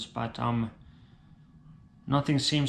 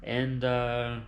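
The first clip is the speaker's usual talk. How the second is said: dying Italian father. Acted. Dying father telling son the family secret, grave and hushed.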